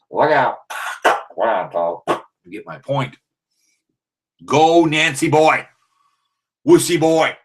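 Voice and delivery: high, hammed-up rodeo hype voice; hammed-up cowboy cheerleader. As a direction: whoop it up like a rodeo announcer teasing the other fans. Mock cowboy rally taunting rivals.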